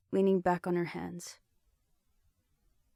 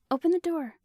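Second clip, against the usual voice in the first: much higher and louder command; scolding command; 11 semitones higher, 6 dB louder than usual. A narrator's reading. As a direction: order him to open up. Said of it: "Genevieve scolded".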